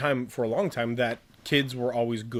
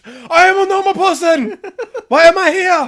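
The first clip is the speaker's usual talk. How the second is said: high, loud hammed-up Japanese accent; 14 dB louder than usual. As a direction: yell it in a hammy Japanese accent. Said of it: "my Japanese accent".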